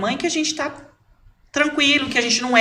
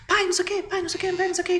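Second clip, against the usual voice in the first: put-on high-pitched childish pleading; imitating nagging child; 9 semitones higher, much faster than usual. Mother imitating her son nagging his father, high childish voice. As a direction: mimic a kid pestering his busy dad.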